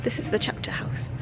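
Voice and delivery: hushed whisper in a church. Real, not acted. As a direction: whisper so you don't disturb anyone. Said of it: "I feel like I have to whisper".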